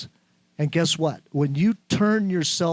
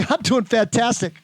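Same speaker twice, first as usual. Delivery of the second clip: enthusiastic reply; 5 semitones higher than usual. Shown as a demonstration. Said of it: "But if you say".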